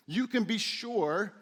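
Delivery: slowed "you can be sure" with stress on "can" and a rise at the end; assured "you can be sure" stressing "can"; certain emphasis. Shown as a demonstration. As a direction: press on "can" to sound sure. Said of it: "I love the certainty in Jesus' tone".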